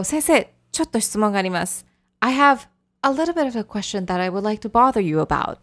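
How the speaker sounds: a timid request to the teacher; tentative, apologetic. Shown as a demonstration. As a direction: ask as if sorry to bother the teacher. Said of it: "So it has that kind of tone".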